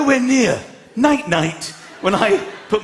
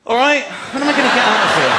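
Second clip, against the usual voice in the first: fed up by Friday; 4 dB louder, faster than usual. Retold or imitated. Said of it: "by Friday".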